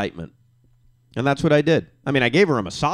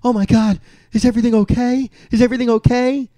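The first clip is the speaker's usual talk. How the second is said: alarmed wife; 9 semitones higher, 5 dB louder, faster than usual. Retold or imitated. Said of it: "So she jumps up and says".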